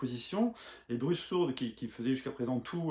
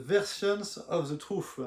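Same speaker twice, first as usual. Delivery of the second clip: slow, thickly French-accented English, pitched up; 4 semitones higher, slower than usual. Real, not acted. French YouTuber announcing the album's English title, thick French accent. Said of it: "vous avez vu mon accent anglais".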